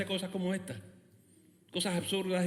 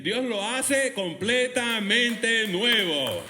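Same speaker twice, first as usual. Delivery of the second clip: forceful preaching; 2 semitones higher, 4 dB louder than usual. Real, not acted.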